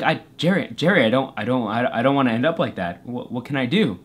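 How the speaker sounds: low, stammering mock worry; worried pleading. Dreamer begging Jerry for help, worried pleading. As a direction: stammer out a lost, subdued plea.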